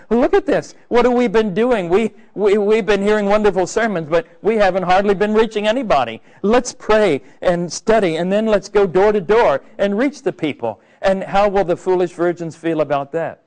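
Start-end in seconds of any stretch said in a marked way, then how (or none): 0.1-10.8 higher, urgent voice of a stirred believer; awakened urgency. Retold or imitated. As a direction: sound suddenly awake and eager to act. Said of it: "The wise virgins will wake up and they'll say".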